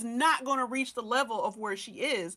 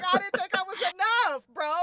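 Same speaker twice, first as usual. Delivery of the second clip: laughing quote; 5 semitones higher, 3 dB louder than usual. Retold or imitated. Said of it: "He's like".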